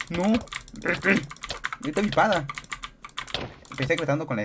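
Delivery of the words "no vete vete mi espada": real battle yell. Real, not acted. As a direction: shout to drive him off. Fighting, yelling at enemy.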